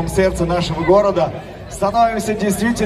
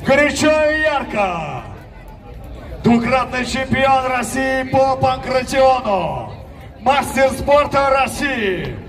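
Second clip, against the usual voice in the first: boxing announcer; 3 semitones higher than usual. Acted. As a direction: ring announcer building hype. Red corner introduction. (объявление бойца на ринге)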